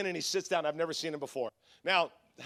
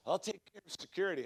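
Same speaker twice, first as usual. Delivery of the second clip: lightly voiced quiet mobster; Glenn; 7 dB quieter than usual. Intimidating churchgoer offering help to his pastor, lightly imitated hushed menace. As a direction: imitate a soft-spoken heavy. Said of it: "he talks like this".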